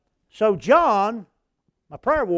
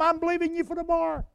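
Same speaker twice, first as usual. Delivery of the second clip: fervent prayer; 9 semitones higher, faster than usual. Retold or imitated. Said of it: "Every one of 'em".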